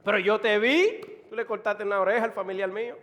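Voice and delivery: loud eyewitness accusation; Malchus's relative. Acted. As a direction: burst out insistently, then rush the charge. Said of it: "este hombre que era pariente de Malco".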